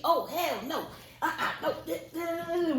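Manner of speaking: high-pitched mock indignation, stretching the refusals; indignant aunt. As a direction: act out an aunt flatly refusing, half laughing. Retelling aunt's indignant outburst.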